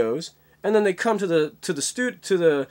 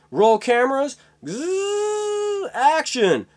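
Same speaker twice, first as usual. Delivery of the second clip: mock director; 8 semitones higher, much slower than usual. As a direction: shout it like a director on set. Acting out film set.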